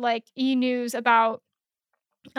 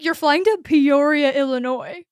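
put-on Wisconsin accent; 3 dB louder than usual. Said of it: "this woman had this accent that was, like, so Wisconsin".

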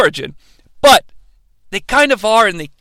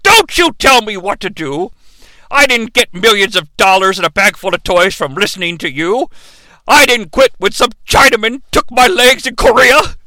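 mock indignant rant; 3 semitones higher than usual. Lebowski rebuffs the old people, building indignant rant. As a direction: bristle like a stubborn old veteran. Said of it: "And he's like".

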